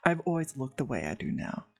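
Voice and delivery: lightly voiced Grim Reaper, low and matter-of-fact; a hint of a solemn, low reaper; reserved Grim Reaper.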